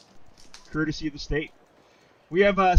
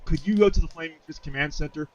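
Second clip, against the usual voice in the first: lightly put-on British officer; amateur British accent. Officer rebuking refugees and requesting reinforcements, light British accent. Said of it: "I've got a terrible British accent".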